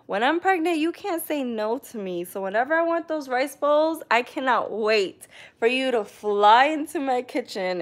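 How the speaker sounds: mock diva demands; playful demanding. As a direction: lay down the law to her sister-in-law, laughing. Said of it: "I said".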